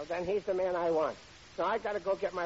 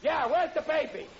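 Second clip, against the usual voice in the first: alarmed; 7 semitones higher, 4 dB louder than usual. Acted. Panicked discovery baby missing.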